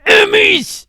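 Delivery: high, explosive yell; sudden full-volume outburst; loud shout. Pretend. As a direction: shout it like a rallying cry. Shouts the word on repeat.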